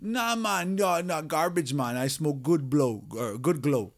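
high, pushy imitation of a coworker; high mock Calvin voice. Coworker mocked in a retold story, high and pushy. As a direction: pitch it up to mock the guy asking for money.

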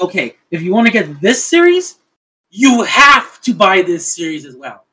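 firm mock ultimatum, leaning on key words; laying down terms. Licensor setting terms on an anime package deal, firm. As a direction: spell out the condition with slow, heavy emphasis.

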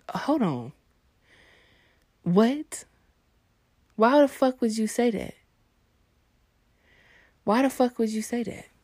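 taken aback. Retold or imitated. Boyfriend reeling from her too-personal comeback, taken aback. Acts out being hurt by comeback.

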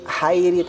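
hairi with smooth breathy h. Shown as a demonstration. Teacher listing mistakes, plain airy h in hairi. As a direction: start hairi with air only, no rasp. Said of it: "jangan sampai dibaca".

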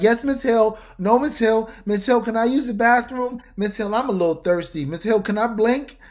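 high, loud, eager yes-man voice; obedient underling. Retold or imitated. Employee answering his boss, high and loud eager. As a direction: play a jittery overeager servant.

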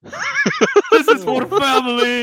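slow, laughing whisper; hammed-up slow line; mock Vin Diesel whisper. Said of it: "he has to whisper".

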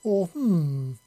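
sly grin in the voice; teasing old man. Acted. Monty muses teasingly.

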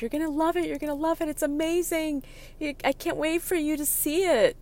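high, singsong teasing; teasing friend. Retold or imitated. Friend unscrewing the container, teasing in a high singsong. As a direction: dangle it in front of her.

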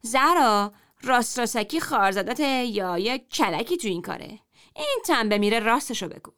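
sarcastic. Acted. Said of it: "زن دومی با کنایه پرسید".

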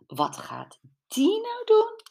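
high, startled call over the noise. Acted. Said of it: "riep Sophie".

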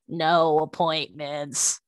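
very slow, drawn-out sign reading; stretched-out sign readout. Retold or imitated. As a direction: read the sign out slowly, word by word.

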